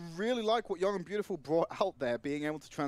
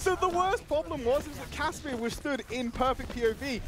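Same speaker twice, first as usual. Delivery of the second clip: high-pitched, tickled recounting; amused disbelief; 8 semitones higher than usual. Real, not acted. Caster explaining a player's hilarious blunder, amused disbelief. Caster laughing over failed sneak.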